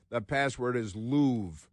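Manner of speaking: slow, mock French "Louvre" as a clipped "Loov"; a light French-accented password. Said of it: "you have to say it with a French accent".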